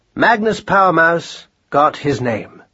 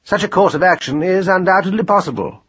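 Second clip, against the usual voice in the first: higher, precise scholarly voice; critical, learned mouse; 6 semitones higher than usual. A narrator's reading. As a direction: weigh it up like a pedant. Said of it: "considered them critically".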